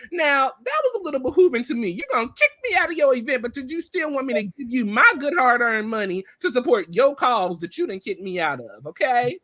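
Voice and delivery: high-pitched, quick-fire indignation; indignant. Real, not acted. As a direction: rattle it off, affronted at the nerve of it. Indignant at being kicked out.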